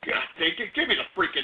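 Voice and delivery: ordinary talk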